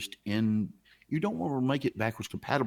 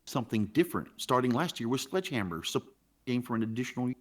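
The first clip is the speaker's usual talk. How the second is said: words dropping out on a bad line; glitchy, cutting-out audio; scrambled voice; faster than usual. Real, not acted. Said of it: "Wait, you're cutting in and out".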